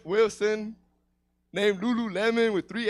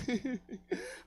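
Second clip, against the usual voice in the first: mock crying; 2 semitones higher, 8 dB quieter than usual. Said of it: "I was fucking crying uncontrollably".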